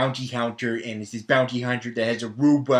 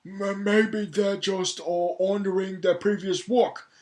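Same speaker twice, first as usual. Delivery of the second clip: put-on defender; 5 semitones higher than usual. Answering his own complaint about the filmmakers, put-on defender.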